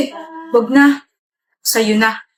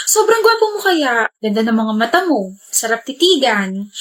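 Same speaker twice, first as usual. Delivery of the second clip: gushing. Acted. Wife gushing at husband.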